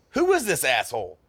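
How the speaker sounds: loud, high angry demand; dad's furious outburst. Retold or imitated. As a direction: bark it like a livid father. Dad furious about the papers.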